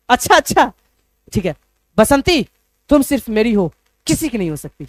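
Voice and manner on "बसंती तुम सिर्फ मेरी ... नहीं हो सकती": possessive lover. Retold or imitated.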